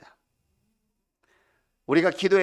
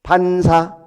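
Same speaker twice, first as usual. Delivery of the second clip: put-on children's comeback; 8 dB louder, much slower than usual. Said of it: "잘하는 게 있죠".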